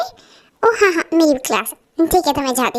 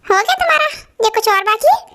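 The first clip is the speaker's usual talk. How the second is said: sarcastic catch; 5 semitones higher than usual. Acted. Catches her ranting about him.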